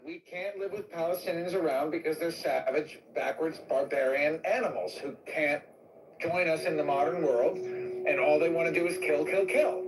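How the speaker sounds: put-on Indian accent. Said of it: "Your Indian accent is so freaking funny".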